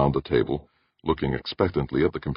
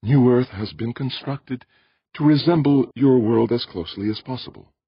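measured, placating character voice; placatingly calm; 9 semitones higher than usual. A narrator's reading. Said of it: "In a placatingly calm voice".

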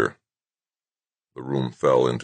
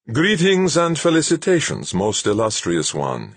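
high, singsong, reedy character voice; reedy, melodious and much higher; reedy but melodious; 7 semitones higher than usual. A narrator's reading. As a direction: greet floridly in a high, piping lilt. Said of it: "his voice reedy but melodious".

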